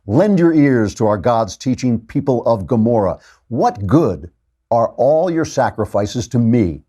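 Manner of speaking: measured, emphatic prophetic reading; scripture reading. Acted. Host reads Isaiah's proclamation to the people, declamatory scripture reading. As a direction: proclaim it as God's message.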